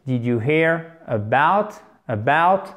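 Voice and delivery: "about" with a barely heard first vowel, stress on BOUT; slow model phrase, reducing the A of "about" to a faint schwa; A très atténué. Shown as a demonstration. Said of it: "C'est comme un E très atténué". (« about » avec un A très atténué, accent sur la fin)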